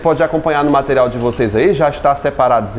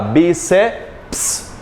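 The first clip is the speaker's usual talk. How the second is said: "Bíceps" split into bi, ce and a detached ps; separado em sílabas. Shown as a demonstration. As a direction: say "Bíceps" in broken pieces, isolating the final ps. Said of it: "Nada de querer separar". ("Bíceps" dito em pedaços, com o ps isolado)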